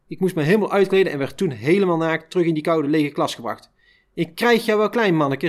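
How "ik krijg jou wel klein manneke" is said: called after. Retold or imitated. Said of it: "riep hij me na".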